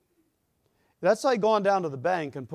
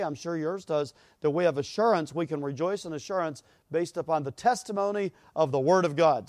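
ordinary talk

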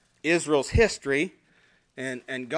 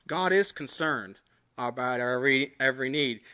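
a hushed, lowered repeat of "God is concerned about our every need"; soft reflective echo; 5 semitones lower, 5 dB quieter than usual. Acted. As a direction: lower and softer, almost to himself. Quiet repeat of same line.

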